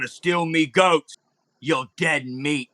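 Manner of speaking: slow, drawn-out guard voice; lightly voiced menace, taking every word slowly; guard threatening. Game master as guard accusing goat thieves, slow threat. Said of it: "He's like".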